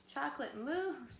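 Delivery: whimpering. Acted. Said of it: "he whimpered".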